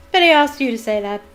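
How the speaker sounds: loud, accusing retort; yelled. A narrator's reading. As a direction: call out the trick. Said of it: "yelled Sir Patrick's head".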